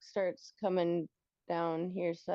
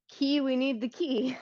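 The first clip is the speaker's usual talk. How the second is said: urgent demand; 4 semitones higher, 5 dB louder than usual. Acted. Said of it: "I'm gonna say".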